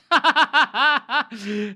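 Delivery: high, loud burst of laughter. Real, not acted. Streamer laughing at three pylons, loud high laugh. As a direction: crack up loudly.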